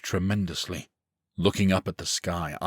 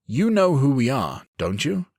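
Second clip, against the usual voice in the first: higher, louder probing question; pressing; 7 semitones higher, 4 dB louder than usual. A narrator's reading. Swordsman pressing the boy for answers, insistent question. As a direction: press him for the truth. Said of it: "I press him".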